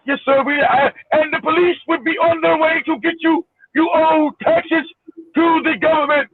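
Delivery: lightly mocked Indian accent of a scam caller. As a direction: put on a mild Indian accent, formally. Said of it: "with an Indian accent".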